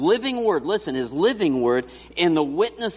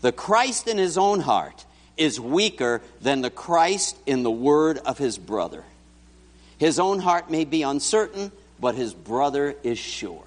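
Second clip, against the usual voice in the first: reading aloud. Shown as a demonstration. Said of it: "here's the key phrase right here".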